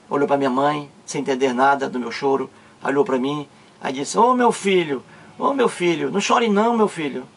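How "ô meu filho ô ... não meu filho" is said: consoling father. Retold or imitated. Father finds his son crying at midday, gently consoling. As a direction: imitate a father soothing his child.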